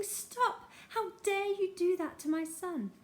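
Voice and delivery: mild mock shout of a mother; imagined shout. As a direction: burst in to protect her son.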